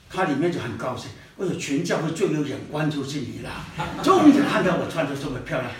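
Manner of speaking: soft and low, pleased inner voice; quiet self-satisfied. Retold or imitated. Flattered sister thinking to herself, quiet and pleased. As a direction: murmur it to yourself, pleased with the compliment.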